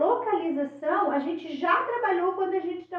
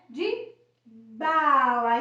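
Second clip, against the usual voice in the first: slow articulation; 3 semitones lower, 4 dB louder, much slower than usual. Shown as a demonstration. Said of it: "B, né?".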